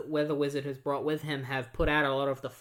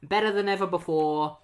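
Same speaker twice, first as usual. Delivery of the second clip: triumphant boast; 5 semitones higher than usual. Retold or imitated. Wally unveiling the new bridge, triumphant proud boast. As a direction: show off the finished bridge. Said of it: "he's like".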